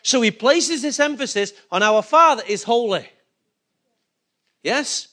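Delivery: normal talking voice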